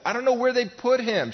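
high, loud desperate outburst; panicked, pitch leaping well up; frantic. Acted. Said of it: "She's frantic".

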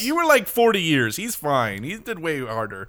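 high, incredulous mock scolding; exasperated inner rant. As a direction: squeak it out like you can't believe her nerve. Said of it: "So I was like".

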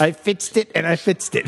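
lightly hammed-up goofy impersonation; odd put-on voice. Riffing on Fitz's catchphrase, light silly voice. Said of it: "I don't know what that voice was".

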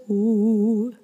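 sustained sobbing "oh"; hooty, sobbed tone. Shown as a demonstration. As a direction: hold a head-voice sob. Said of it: "you see, this".

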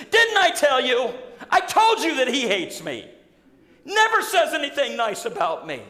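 a hint of a petulant king; king whining about the prophet, half laughing; whiny I-told-you-so. Ahab complaining to Jehoshaphat.

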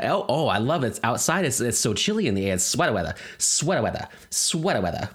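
put-on Bronx lady accent. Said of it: "have all these crazy accents".

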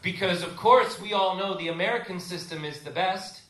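sarcastic. Shown as a demonstration. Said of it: "Sarcastic tone, please".

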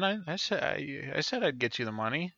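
quiet frightened stammering; nervous stammer. Acted. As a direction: stammer out an excuse. Stammering scared man.

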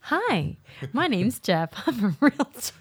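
muffled, as if talking from under a box; box over head. Pretend. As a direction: speak with a cardboard box over your head. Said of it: "let me slip this right over my".

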